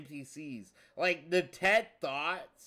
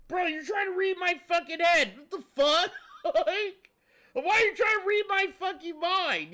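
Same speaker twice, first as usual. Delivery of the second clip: higher and louder, an outraged NPC yelling at a mind reader; mock furious shout; 11 semitones higher, 5 dB louder, faster than usual. NPC catching Phil reading his mind, furious shout. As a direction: shout it like a caught snoop's victim. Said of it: "how would you feel".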